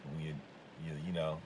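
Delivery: halting, stuttering speech. Real, not acted. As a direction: stumble over the words. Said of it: "sorry for the stuttering".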